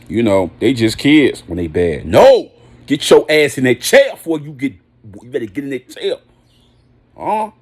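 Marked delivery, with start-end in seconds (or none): 2.0-7.5 loud, sharp "No!" then a firm order to sit; strict parent yelling. Acted. Parent scolding a misbehaving child, yelling. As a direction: bark it like a parent scolding a bad kid.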